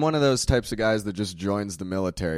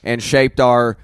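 woke drill sergeant; 6 dB louder, slower than usual. Acted. Sergeant continues speech.

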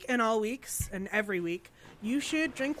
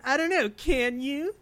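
teasing; 4 semitones higher than usual. Real, not acted. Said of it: "I said".

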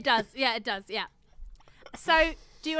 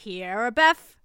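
backwards speech; 2 semitones lower, 6 dB louder than usual. Shown as a demonstration. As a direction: say the word as if reversed. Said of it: "now I need to do that back".

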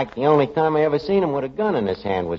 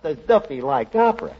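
mocking repeat. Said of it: "did you hear that".

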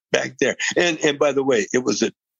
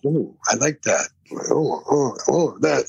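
a light, impressed jazzman's murmur; jazz musician impression. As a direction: lightly voice the musician hearing a lick he likes. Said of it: that it would make a jazz musician go.

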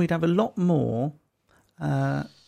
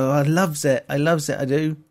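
put-on West Country accent; 5 dB louder than usual. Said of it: "I'm doing it in, like, a West Country accent".

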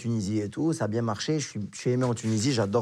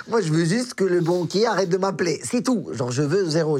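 laughing; 4 semitones higher than usual. Real, not acted. Laughing while telling money story.

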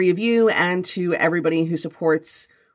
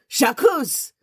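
higher, demanding cat-voice yowl; confrontational cat meow; 6 semitones higher than usual. Acted. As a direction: talk back like a bossy cat. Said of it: "Fanny's meows take on a decidedly confrontational edge".

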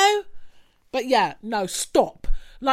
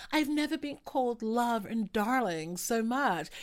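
mock posh English; 7 dB quieter than usual. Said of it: "always kind of tried to speak a little bit posh".

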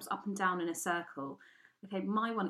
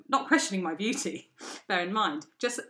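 usual speaking voice

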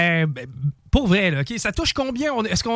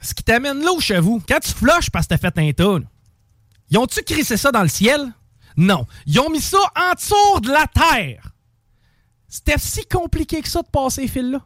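fâché pour rire; 4 semitones higher than usual. Pretend. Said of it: "Je vais me choquer pour la première fois".

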